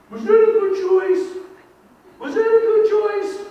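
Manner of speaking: high, loud, slow patronizing question; mock the teacher talking down to a child; sing-song scolding of a child; teacher scolding a kid. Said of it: "the things that we say to kids".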